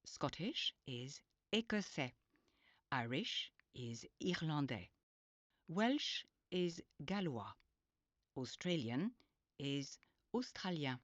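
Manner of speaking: whispered vocabulary drill. Shown as a demonstration. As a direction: whisper the word pairs. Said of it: "English is anglais".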